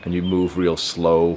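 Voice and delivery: slow, resonant masculine demo voice; slow it right down for flirting.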